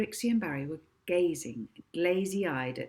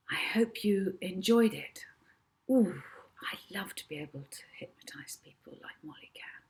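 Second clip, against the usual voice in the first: whispered aside; 2 semitones higher than usual. Real, not acted. Narrator aside to listeners.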